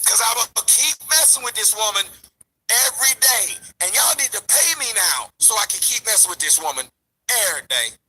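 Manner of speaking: mocking rival's plea. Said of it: "I'ma bring my black ass back to y'all".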